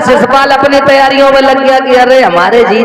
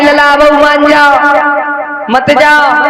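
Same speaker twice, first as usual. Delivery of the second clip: bhabhi pleading; 4 semitones higher than usual. Retold or imitated. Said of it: "भाभी कह रही".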